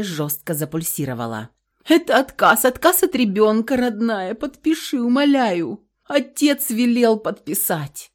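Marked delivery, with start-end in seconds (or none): 1.8-8.1 high, loud begging that breaks into a sob; begging her daughter through tears; pleading sob. A narrator's reading. Mother begs daughter to sign, sobbing. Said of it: "всхлипнула мать".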